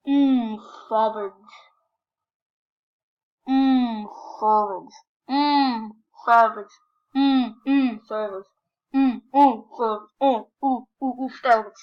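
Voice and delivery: punchy hums and catchphrase in a mock character voice; taco impression. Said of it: "do my best impression of the taco".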